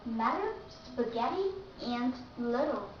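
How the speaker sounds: matter, spaghetti, little with D for the double T. Shown as a demonstration. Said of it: "you have to pronounce D".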